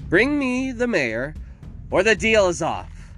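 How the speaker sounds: high, loud, drawn-out screechy demands; screeching villainess. A narrator's reading. Victoria gives the town an ultimatum, screeching. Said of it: "Victoria screeched and hacked".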